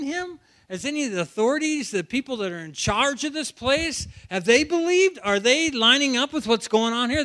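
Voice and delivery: mock outraged authorities, firing question after question; going off, acted. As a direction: act mildly worked up, voice lifted. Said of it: "they're kinda going off here".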